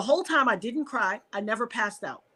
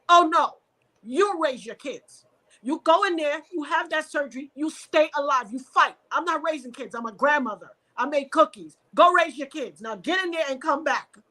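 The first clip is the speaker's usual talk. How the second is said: firm motherly order; 3 semitones higher than usual. Retold or imitated.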